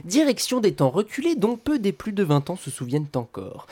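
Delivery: hushed, breathless storyteller tone; spooky hushed narration; mysterious whisper. Acted. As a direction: whisper it like a secret journey. Mysterious journey intro.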